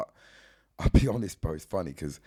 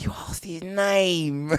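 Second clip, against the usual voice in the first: laughing disbelief; 6 semitones higher, 5 dB louder, much slower than usual. Retold or imitated. Manager quoted, disbelieving.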